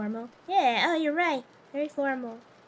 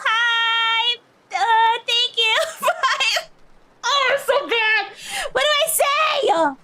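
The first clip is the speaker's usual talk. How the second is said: nervous; 4 semitones higher than usual. Real, not acted. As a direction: choke while meeting his mom. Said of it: "I was, I got nervous".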